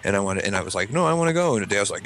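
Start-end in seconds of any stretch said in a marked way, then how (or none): 0.9-1.5 high-pitched mock child's protest; hammed-up little kid voice; whiny kid. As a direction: imitate a kid refusing. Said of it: "You know how kids are".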